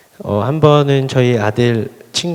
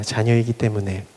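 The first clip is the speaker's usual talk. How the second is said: tender voice of God. Retold or imitated. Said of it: "말씀하시는 말씀".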